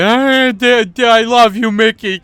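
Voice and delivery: high, loud, giddy squeal of delight; mock gleeful fan. Tourist mimicking a gleeful Disneyland fan, high squeal. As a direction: shriek it like an overexcited kid at Disneyland. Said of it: "like autistic guy at Disneyland".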